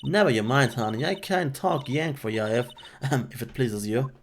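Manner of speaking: a rural woman turning hospitable; friendly country woman. Acted. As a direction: welcome them out of hiding. She reassures the girl.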